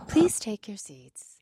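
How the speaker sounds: slow cabin announcement voice; slow, drawn-out stewardess announcement; flight attendant. Pretend. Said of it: "what did the airline stewardesses say".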